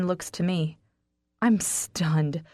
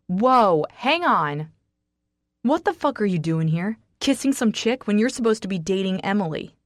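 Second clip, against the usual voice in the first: loud, shocked shouting; loud angry outburst; outraged yell; 3 semitones higher, 5 dB louder than usual. Acted. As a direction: yell in protest after a punch. Jack hit, yelling at Raynor.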